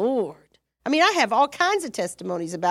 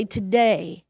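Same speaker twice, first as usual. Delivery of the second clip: slow, low resolved declaration; declaration of faith; 4 semitones lower, slower than usual. Shown as a demonstration. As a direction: declare it calmly, word by word. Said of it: "and you say".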